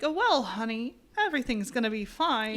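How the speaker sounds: light imitation of an old-Hollywood transatlantic accent, crisp and articulate; a hint of a 1950s sitcom wife in transatlantic accent; sweet put-on transatlantic accent, lightly done. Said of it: "Kind of a really articulate accent".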